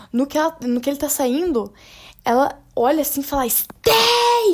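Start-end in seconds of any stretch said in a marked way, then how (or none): 3.5-4.6 shrill, very high, stretched-out, drawn-out yell. Retelling a scene where she stops him leaving, imitating a loud yell. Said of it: "ela dá um gritão".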